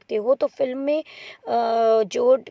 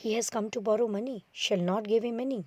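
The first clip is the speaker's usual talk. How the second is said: hushed thinking aloud; soft aside, kept from the other character; aside to audience; 6 dB quieter, much slower than usual. Acted. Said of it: "वो आपको बताना चाह रहा है कि उसके मन में क्या है".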